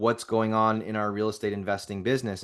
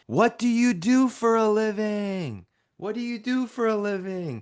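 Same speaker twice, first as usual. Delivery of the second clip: very high, stretched-out yelling; 11 semitones higher than usual. Retelling his wife on a loud plane: imitating his wife yelling. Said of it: "I can hear her yelling".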